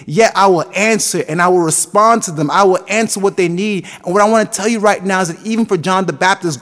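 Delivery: driving, emphatic sermon build; fervent pulpit exhortation; preaching at full force. Acted. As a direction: preach with rising conviction, hitting repeated phrases hard.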